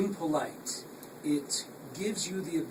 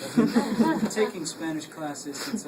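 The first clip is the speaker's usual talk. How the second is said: laughing; 4 semitones higher, 7 dB louder, slower than usual. Real, not acted. Laughs at own Spanish.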